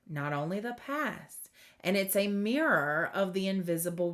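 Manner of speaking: measured oracle reading with lifted key phrases; reading aloud. Real, not acted. Card reader reading middle world message to viewers, measured reading aloud. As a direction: read the guidance out deliberately, phrase by phrase.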